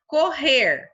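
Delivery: emphatic, divided "correr"; syllable by syllable. Shown as a demonstration. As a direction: say "correr" loudly in two distinct beats. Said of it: "um R fica com a primeira sílaba".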